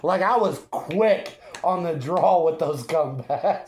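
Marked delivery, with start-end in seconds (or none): 0.0-2.6 laughing. Real, not acted. Laughing while boasting.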